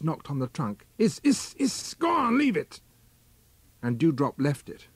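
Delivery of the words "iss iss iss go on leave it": high, strained hound-urging cry. A narrator's reading. Huntsman urging the hound at the holt, high cry. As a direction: egg the dog on in a much higher voice.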